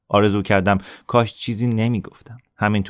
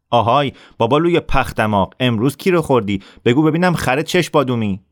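sneering, raised mocking call; bully's taunt; 5 semitones higher, 3 dB louder than usual. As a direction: jeer at him like a bully. Assef taunting Hassan again.

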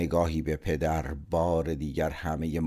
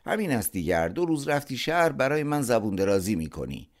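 sharp, raised father voice, peaking high; indignant father, louder and higher; angry rebuke; 7 semitones higher, 4 dB louder than usual. A narrator's reading. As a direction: snap back at the cheeky son. Father rebukes son's retort.

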